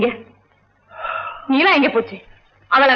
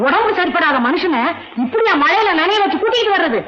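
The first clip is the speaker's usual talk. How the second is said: angry scolding; 2 semitones higher than usual. Acted. Woman berates the nurse for getting the patient wet, angry scolding. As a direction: scold with rising pitch.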